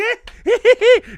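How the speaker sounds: very high, loud mocking cackle; imitated friend's laugh. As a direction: mimic a friend's wild laugh. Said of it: "he has this laugh where he's like".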